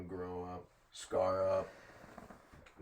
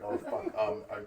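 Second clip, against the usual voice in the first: mock flustered customer; imitated short-circuiting; 2 semitones higher than usual. Taylor's turn to order, imitated spazzing and stumbling. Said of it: "he just starts fucking spaz. He's fucking short circuits".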